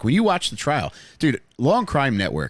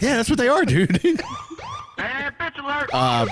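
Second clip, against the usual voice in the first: glitching robot; much slower than usual. Pretend. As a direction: laugh through a glitchy robot. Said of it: "You just sound like a malfunctioning sex robot".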